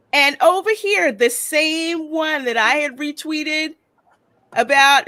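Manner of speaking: high, loud and indignant; rising up in outrage at the tweet; indignant outburst. Real, not acted. Exasperated pointing to tweet.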